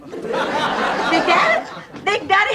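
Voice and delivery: delighted surprise. Acted. Drawn-out delighted greeting.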